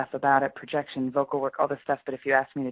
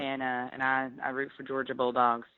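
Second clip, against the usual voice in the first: country Georgia drawl; slow Georgia accent. Shown as a demonstration. Imitating a Bulldogs fan in a slow Georgia accent. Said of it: "that slow Georgia where they're like".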